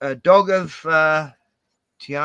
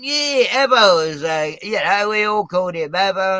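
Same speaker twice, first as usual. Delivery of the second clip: higher, louder, breezy and oblivious; clueless quote; 4 semitones higher, 6 dB louder than usual. Retold or imitated. Clueless Canberra guy explaining the nickname to the mates, high and oblivious. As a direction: say it like he has no idea it offends. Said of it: "And he's going".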